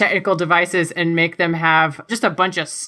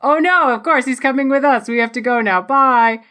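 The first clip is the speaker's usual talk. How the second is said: put-on higher-pitched, light Russian accent; 6 semitones higher than usual. Victor whisks Mitchell past stormtroopers, light Russian accent. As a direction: put on a charming Russian lilt. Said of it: "in that charming Russian accent".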